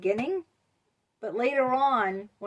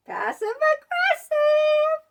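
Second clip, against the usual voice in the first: mock passive aggressive; 9 dB louder, slower than usual. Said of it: "names the behaviour, voiced".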